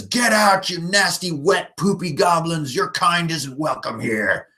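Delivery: slow hammed-up threat at the goblins; intimidating warrior. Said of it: "trying to intimidate them".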